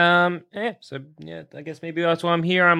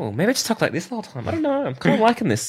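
put-on Australian accent; 5 semitones higher, faster than usual.

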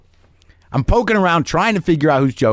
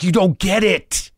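higher, slower insistent protest; retold exasperation; 6 semitones higher, slower than usual. Comic to partner who doesn't see the problem, retold exasperation.

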